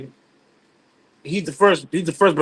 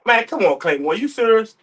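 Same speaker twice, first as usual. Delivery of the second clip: higher mock voice of Ray, teasing; Ray doubting that Claymore is serious, in a put-on higher voice; imitating Ray; 7 semitones higher than usual. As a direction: play Ray, incredulous and higher. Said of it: "Why you do the voice?".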